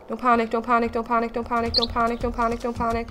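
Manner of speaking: rapid-fire repeated chant on one pitch; steady yourself under your breath, barely holding it together; anxious self-calming. Real, not acted. Player talking themselves down during cougar attack, nervous chant.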